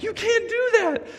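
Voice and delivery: put-on high, firm call at a kid; scolding.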